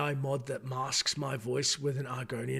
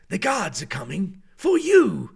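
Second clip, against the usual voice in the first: louder, slow guard bass voice; slow booming guard warning; Nord guard voice; 4 semitones higher, 7 dB louder than usual. Shown as a demonstration. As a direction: threaten like a town guard. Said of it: "that's my bass thing".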